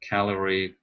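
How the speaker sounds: CALorie, first syllable stressed. Shown as a demonstration. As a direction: lean on the CAL of calorie. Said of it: "stress on each individual words".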